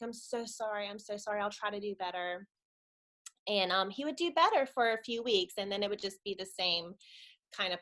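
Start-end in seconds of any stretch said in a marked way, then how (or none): 0.0-2.5 soft, understated remorse; hushed imitation of someone sorry; remorseful apology. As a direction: retell a tearful apology gently, without crying. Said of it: "he would be so remorseful and he'd, you know, start crying".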